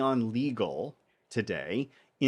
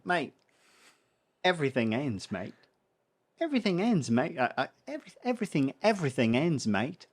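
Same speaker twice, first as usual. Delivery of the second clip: a light, attempted Australian accent on mate; 2 semitones higher than usual. Mentor passing on business advice to the host, in a lightly done Australian accent. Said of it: "do you want the Australian accent".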